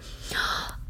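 sharp intake of breath; sudden gasp of realization; quick audible gasp. A narrator's reading. Charlie gasps before yelling.

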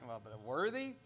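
lightly voiced baffled hearer; confused listener. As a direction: play a puzzled doubter asking worthy.

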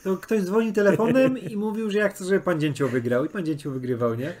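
a hint of a cranky old-timer; old prospector. Grumbling "in my day" old-timer. (lekko zagrany zrzędliwy staruszek)

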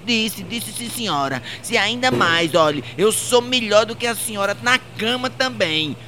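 high put-on voice of a sassy maid; cheeky maid voice. Maid taunting her boss, high and cheeky. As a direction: play the maid, smug and high.

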